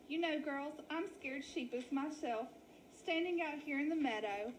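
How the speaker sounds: milk the sad lost story; wolf faking a sheep lady. Acted. Wally in lady voice.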